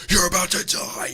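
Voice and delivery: high, loud frantic yell; IShowSpeed. Acted. Doctor warning a patient like a streamer, frantic shouting. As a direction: scream it like an over-the-top streamer. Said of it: "like I Show Speed and says".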